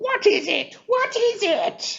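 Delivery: very high, wide, changed woman's voice.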